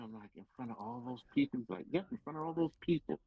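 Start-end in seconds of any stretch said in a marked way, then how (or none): 0.4-1.6 higher-pitched, disbelieving question; startled question. Retold or imitated. Rookie asking the booker about his debut, startled question. 1.9-3.2 high-pitched imitation of the booker; booker's confirming reply. Booker answering the nervous rookie, high put-on confirmation.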